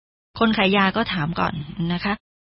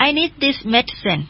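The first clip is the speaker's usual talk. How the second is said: slow, careful English; slow teacher model; slow model reading; 3 semitones higher, much slower than usual. Shown as a demonstration. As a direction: read slowly for learners. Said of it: "บิลก็บอกว่า".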